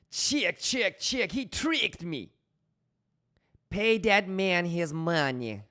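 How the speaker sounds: a touch of a poker player calling check; lightly hammed-up card player; movie quote. Streamer quoting the poker movie, mock gambler. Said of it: "the poker, uh, movie".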